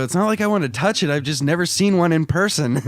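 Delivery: mock pleading. Retelling own pleading line.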